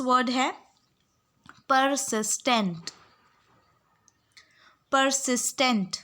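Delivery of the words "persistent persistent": each syllable stretched very slowly; dictation pronunciation. Shown as a demonstration. Teacher dictating a word slowly to students. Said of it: "pronounce कर रही हूँ".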